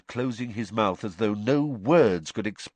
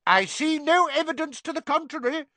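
shouting Fudge. A narrator's reading. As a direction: shout her down. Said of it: "shouted Fudge".

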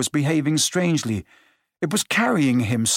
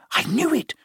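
gasped; 11 semitones higher than usual. A narrator's reading. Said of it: "Hermione gasped".

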